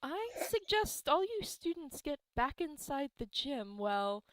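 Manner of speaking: stroke the beard, ponder aloud; wise old man. Acted. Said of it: "strokes his beard and he's like".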